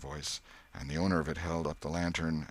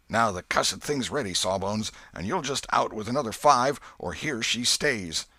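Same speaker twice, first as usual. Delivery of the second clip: rough demand; 5 semitones higher, 7 dB louder than usual. Acted. Potter threatens the doctor.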